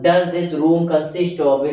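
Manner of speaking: slow, clear question, each word apart; slow model question. Shown as a demonstration. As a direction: dictate the question for the class. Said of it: "तो कैसे बोलोगे?". (धीमा, साफ़ सवाल)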